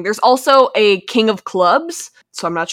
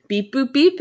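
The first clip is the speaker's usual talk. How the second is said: toy robot voice; 3 semitones higher than usual. Retold or imitated. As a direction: beep boop robot noises. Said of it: "your inner robot just came out".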